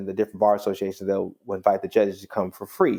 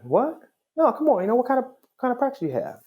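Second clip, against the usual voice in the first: higher-pitched, rushed mock disbelief; incredulous retelling; faster than usual. Young man pressing the judge about his practice, incredulous. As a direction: imitate someone brushing off the answer and pressing on.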